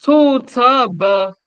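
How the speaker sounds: To, te, be high and loud; tone demo. Shown as a demonstration. Teacher shows the changed tone on To, te. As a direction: ring out To, te high. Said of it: "Maintenant, le ton change".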